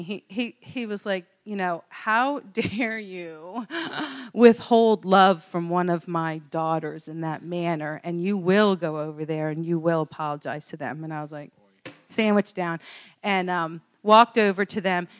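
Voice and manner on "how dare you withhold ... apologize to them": mock stern rebuke. The Lord scolding her over his daughters, mock stern rebuke. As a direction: lay down the law, imitating a stern father. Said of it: "he put the smack down on me".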